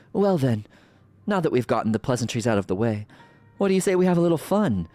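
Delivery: gleeful villain, rising to a taunt; slow theatrical villain menace. Acted. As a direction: tease them before the fight. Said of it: "I love playing a villain voice".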